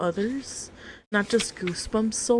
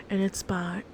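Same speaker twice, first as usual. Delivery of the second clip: asmr whisper. Acted. Slow whispered author.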